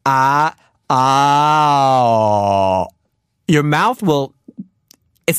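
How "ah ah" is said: "ah" moving from open to rounded; saying ahh. Shown as a demonstration. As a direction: shift "ah" toward an O shape. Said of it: "from ah to ah".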